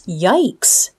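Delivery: soft, breathless whispered yikes. Acted. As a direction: whisper it as if scared to watch. Narrator reacts to the fight.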